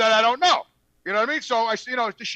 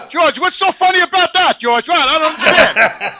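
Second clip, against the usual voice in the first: half-laughing, higher and louder; trying to talk through his own laughter; laughing while talking; 4 semitones higher, 6 dB louder, slower than usual. Real, not acted. Laughing at his friend on air.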